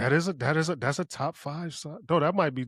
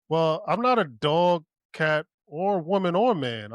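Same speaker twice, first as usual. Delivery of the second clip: raised, louder mock proclamation; bold declaration; 4 semitones higher, 4 dB louder than usual. Speaker answering those who allow dog or cat, bold declaration. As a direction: announce it proudly to objectors. Acts out declaring oneself a god.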